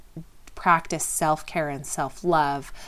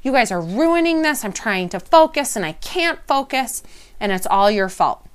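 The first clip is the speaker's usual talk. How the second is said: imitated angry self-talk; 4 semitones higher than usual. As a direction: play the frustrated parent pointing fingers. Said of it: "I must be telling myself".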